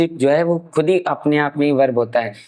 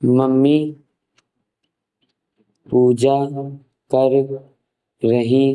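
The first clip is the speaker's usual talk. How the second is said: slow dictation; slower than usual. Shown as a demonstration. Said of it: "examples".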